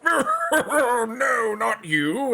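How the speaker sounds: high, loud, laughing rejection; snooty brush-off. Retold or imitated. Britain rejecting Spain with a high mocking laugh. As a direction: wave them away with a laugh. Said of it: "they're like".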